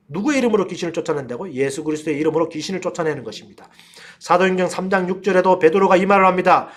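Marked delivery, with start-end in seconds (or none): none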